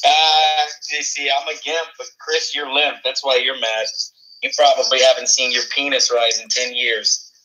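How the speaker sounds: a hint of a low country drawl, mocking; lightly voiced redneck taunt. Mocking Chris as a good ol' boy, lightly voiced.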